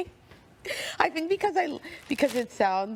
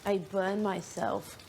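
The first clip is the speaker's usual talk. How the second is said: slow babyish mock whine; 4 dB quieter, slower than usual. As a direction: drag it out like a little kid. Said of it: "talking like a baby".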